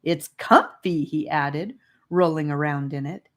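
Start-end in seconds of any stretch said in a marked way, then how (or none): 0.0-1.0 happy. Acted. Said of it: "laughing up at them".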